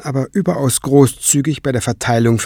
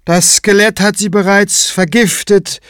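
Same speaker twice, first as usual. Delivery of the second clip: higher-pitched, embittered statement; bitter; 9 semitones higher, 4 dB louder than usual. A narrator's reading. Tenebrae blaming the skeleton for poisoning her, bitter. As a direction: state the grievance with resentment. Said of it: "stellte Tenebrae bitter fest".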